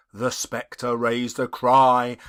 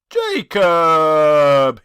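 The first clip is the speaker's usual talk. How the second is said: louder, begging call of a name; imploring; 8 dB louder than usual. A narrator's reading. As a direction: plead with an old friend. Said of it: "he said imploringly".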